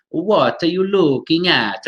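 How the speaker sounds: put-on slow, syllable-timed Italian accent. Teacher imitating an Italian learner of English, Italian accent. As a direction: stereotypical Italian English, every syllable weighted. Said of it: "Italian, you know, it might be like".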